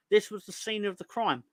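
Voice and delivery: a requested line, performed with pitch lifted; performed catchphrase. Acted. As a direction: deliver it as your regular bit. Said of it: "the part I usually do for Ben".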